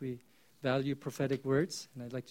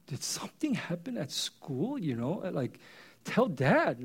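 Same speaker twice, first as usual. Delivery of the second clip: caring dad. Retold or imitated. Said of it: "like, this caring dad".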